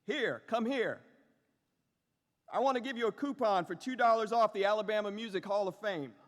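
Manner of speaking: chirpy Southern gift-shop lady offering a coupon, fast; Southern accent. Retold or imitated. Gift shop woman offers the visitor a coupon, in a quick Southern accent. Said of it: "forgive the Southern accent here".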